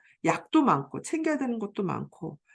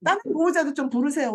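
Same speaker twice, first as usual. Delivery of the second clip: mock huffy complaint, louder and fast; imitating an irritated guardian, louder and rushed; irritated outburst; 5 semitones higher, 4 dB louder than usual. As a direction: snap back like an annoyed guardian. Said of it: "신경질을 펑 내고".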